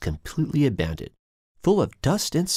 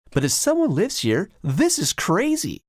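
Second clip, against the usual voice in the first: nervous; 9 semitones higher than usual. A narrator's reading. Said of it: "a bit nervous".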